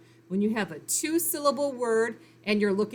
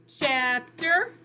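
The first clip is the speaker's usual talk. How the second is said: "Chapter" louder, rising at the end; louder rising "Chapter" for students; rising repeat; 4 semitones higher, 4 dB louder than usual. Shown as a demonstration. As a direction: say Chapter again, lifting it for the class. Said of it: "Look for the pattern".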